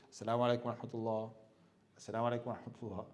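low, rapid gabbled salams; rushed salams. Retold or imitated. Mocking worshippers who rush the end of prayer, gabbling fast. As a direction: rattle off the prayer endings in a hurry.

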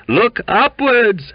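high, drawn-out howl; loud wailing cry, stretched out. A narrator's reading. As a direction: howl it slowly and loudly. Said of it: "howled the other".

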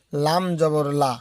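লা with its vowel held one alif long, slowly; stretched vowel. Shown as a demonstration. Teacher showing students a one-alif stretch on লা. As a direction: draw out the আ in লা for one beat. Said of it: "এক আলিফ পরিমাণ টেনে পড়তে হবে".

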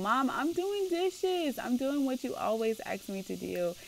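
put-on protesting child. Child to mom while doing dishes, protesting. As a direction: play a put-upon kid objecting.

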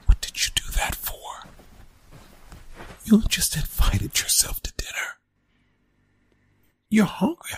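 urgent hushed scolding; whisper-scold him before Mom notices; annoyed whisper. Acted. Teen scolding his friend for inviting himself, urgent whisper.

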